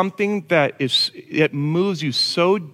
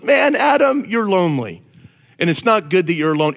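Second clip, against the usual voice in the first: God; 4 semitones higher than usual. Retold or imitated. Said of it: "It's God who goes".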